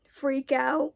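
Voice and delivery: a crack slips into the voice. Real, not acted. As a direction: voice cracks on scared. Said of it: "my voice just, just cracked there".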